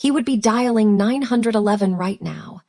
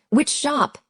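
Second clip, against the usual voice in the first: snapped question; 6 semitones higher than usual. A narrator's reading. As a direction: snap the question with mild irritation. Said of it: "he snapped".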